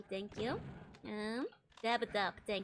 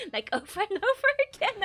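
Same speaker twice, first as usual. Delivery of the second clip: imitating own laugh; 9 semitones higher, 8 dB louder than usual. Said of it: "where I just go".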